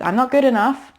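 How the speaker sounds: a hint of a worried inner critic. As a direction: let the doubting voice creep in. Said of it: "when that little voice comes in with".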